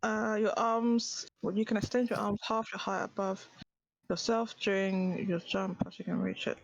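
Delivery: drowsy, medicated speech; sedated. Real, not acted. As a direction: speak heavy and foggy, sedated. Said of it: "sedated right now".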